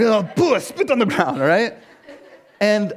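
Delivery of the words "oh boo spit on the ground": mock booing critics. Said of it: "They're like".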